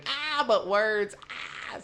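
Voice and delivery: high, slow mock scream; hammed-up whiny wail of a meme girl; a mock protester's wail, high and drawn out; mock liberal scream. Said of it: "That liberal scream".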